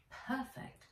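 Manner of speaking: unvoiced whispered Perfect; a pleased secret whisper. A narrator's reading. Nat spots the dinghy, whispered delight.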